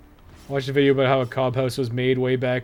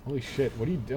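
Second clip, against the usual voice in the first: usual speaking voice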